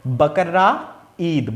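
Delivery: बकरा ईद said slowly, ई kept whole; slow separate words. Shown as a demonstration. Teacher to students, stretching बकरा ईद before joining it. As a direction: sound out बकरा ईद word by word. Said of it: "ई पूरा का पूरा गायब हो जाता है".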